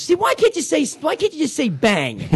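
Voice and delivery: high-pitched mock mother asking innocently; imitating mother. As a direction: play his sixty-seven-year-old Italian mother scolding. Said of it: "And then my mother says".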